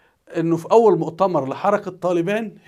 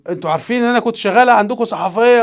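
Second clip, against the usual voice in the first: raised, higher voice, asking over the phone; mock phone call, pitched up and louder; 5 semitones higher, 5 dB louder, faster than usual. Acting her phone call to Taliban.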